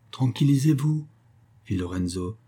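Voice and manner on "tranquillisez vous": higher, mildly soothing appeal; lightly placating; conciliatory. A narrator's reading. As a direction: try to calm the old man. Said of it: "d'un ton conciliant".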